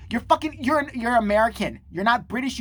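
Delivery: high, exasperated telling-off; exasperated scolding. Acted. Scolding the absent American who acts British, exasperated.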